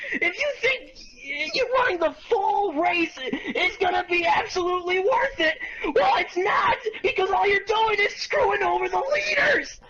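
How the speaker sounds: exasperated half-crying rant; frustrated rant. Real, not acted. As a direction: whine and yell in frustration. Ranting at lap cars.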